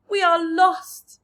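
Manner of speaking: slow, loud cry of doom; despairing cry. A narrator's reading. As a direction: wail that all is lost. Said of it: "Miss Spider cried".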